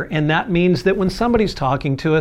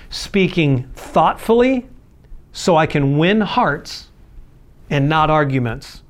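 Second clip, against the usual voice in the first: slow emphatic; slower than usual. Shown as a demonstration. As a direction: slowly weigh out "thoughtfully", "win hearts and not arguments". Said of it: "point stated then repeated".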